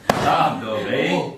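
loud, laughing stop; loud protest. Real, not acted. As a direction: shout it at a pillow attack.

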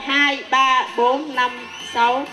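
ordinary talk

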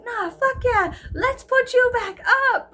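high excited mock cheer; hyped-up yes. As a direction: pump it up like a pit buddy. Eager reply, high and loud.

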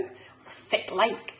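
slow Scottish "fit like", said like "fit lyke"; a slow, friendly Doric hello; Scots greeting. Shown as a demonstration. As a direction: drawl "fit like" out in broad Scots. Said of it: "as we say in Scotland".

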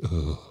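quiet, low disgusted groan; disgusted ugh. Retold or imitated. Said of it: "And she just goes".

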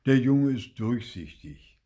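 put-on a jokey old man winking at her; lightly voiced grandpa. Grandpa teasing the cashier, playfully slow.

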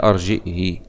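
أرجئه with hamza and final "hi"; kasra, no sila. Shown as a demonstration. Teacher showing the second reading, أرجئه ending in "hi". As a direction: end أرجئه on a kasra, no added yaa. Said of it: "بالكسر والهمز بلا صلة".

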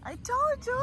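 hammed-up monster chasing a child; tickle monster voice. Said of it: "Here comes the tickle monster".

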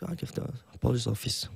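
soft, slow, slurred mock English; fake fluent English. Shown as a demonstration. Guest faking English near the police station, soft mumble. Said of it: "앞에는 많이 흐리네요".

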